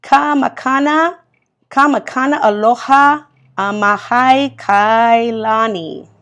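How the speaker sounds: Kamakana Aloha Amahai Kailani, sounded out syllable by syllable; careful attempt at the Hawaiian name Kamakana Aloha Amahai Kailani. Shown as a demonstration. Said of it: "I will try to say it".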